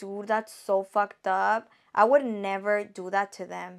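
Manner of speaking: ordinary delivery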